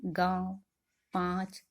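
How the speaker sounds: "गांव", "पाँच" with the vowel through nose and mouth; nasalised vowels. Shown as a demonstration. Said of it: "तो आवाज आ रही है".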